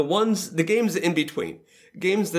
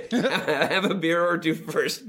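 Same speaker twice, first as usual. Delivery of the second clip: slow, laughing through the words; 2 semitones higher, slower than usual. Real, not acted. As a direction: laugh as you repeat it. Repeats joke while laughing.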